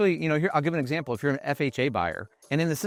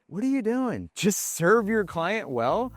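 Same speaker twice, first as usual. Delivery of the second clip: exasperated scolding; 8 semitones higher, slower than usual. Retold or imitated. Scolding agents who complain.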